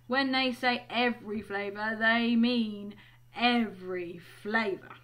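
slow, weighty stress on EVERY; warning. Acted. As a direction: draw out "every flavour" as a caution. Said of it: "Ron warned Harry".

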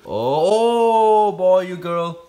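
sudden high loud yelp of fright; startled yelp. Real, not acted. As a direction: jump back with a loud squeal. Tarantula lunges at him.

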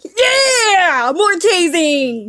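high, loud whoop stretched out long; gleeful mock cheer. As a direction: whoop it out, imitating someone thrilled. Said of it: "Kali Pai is just like".

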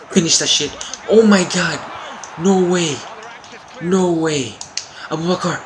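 real frustrated yell; excited shout. Real, not acted. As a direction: shout it out as the shot goes wide. Shot hits the post.

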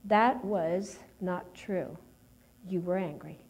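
slow, measured voicing of God's correction; the Lord speaking. The Lord correcting the speaker's belief, slow and grave. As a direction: state it slowly, dropping low and soft at the end. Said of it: "the Lord told me".

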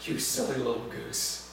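tender. Shown as a demonstration. Pastor offering the tender translation, soft and fond. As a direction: say it like a loving parent. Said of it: "The best we can do is".

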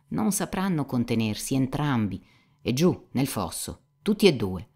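lightly voiced cynic, animated explaining; Rakitin sicuro di sé. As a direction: lay out the theory with lively certainty. Dialogo letto, Rakitin spiega animato. (cinico saccente e animato)

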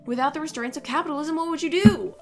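a hammed-up valley girl pundit picking a fight; Valley Girl Ben Shapiro. Mocking a quiz question as a valley girl pundit, hammed-up. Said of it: "That was like Valley Girl Ben Shapiro".

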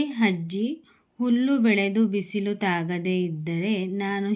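measured storytelling read, lightly voicing the repeated calls; story narration. Teacher reading the shrimp tale aloud to her class, in a gentle storytelling voice. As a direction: tell the tale as if reading to children.

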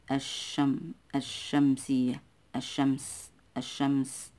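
الشمس said "ash-shams", L dropped and sh doubled; silent lam. Shown as a demonstration. Teacher showing the sun lam, الشمس with silent L. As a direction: run straight into a doubled sh in الشمس. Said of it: "يعني لا تنطق رغم كتابتها".

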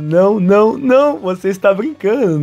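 mildly desperate protest; mock desperation. Kazuya protesting the park attendant's instructions, mildly desperate. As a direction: plead in mild, acted disbelief. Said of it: "fica super desesperado".

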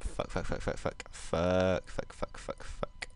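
rapid swearing under the breath; panicked muttering. Real, not acted. Player as prayers drop, panicked whispered swearing. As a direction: whisper it over and over, fading away.

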